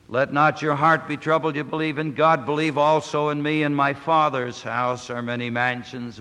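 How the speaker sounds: measured, solemn reading of the text; scripture reading. Acted. Preacher reading scripture aloud, solemn. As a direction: read the Gospel to the congregation.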